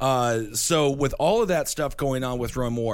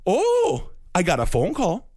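put-on Midwest accent; 2 semitones higher than usual. Host plays Roy Moore voter who got a call, mock Midwest accent. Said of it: "I'm doing a Midwest accent".

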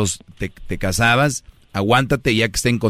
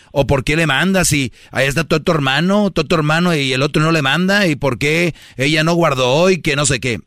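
nagging wife; 4 semitones higher than usual. Retold or imitated. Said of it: "va a decir".

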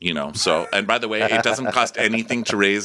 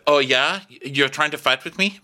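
mock challenge; 5 semitones higher than usual. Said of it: "stupid Sarah said".

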